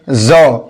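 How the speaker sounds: "ज" said as a buzzing zo; ZA letter sound. Shown as a demonstration. Teacher sounding out the letter za, "ज" said as zo. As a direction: voice "ज" as z with a rounded o. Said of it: "जा का उच्चारण".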